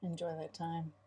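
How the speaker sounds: quietly whispered echo of the advice; soft echo. Real, not acted. Mother echoing her husband to listeners, whispered softly. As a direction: breathe it back as a gentle agreement.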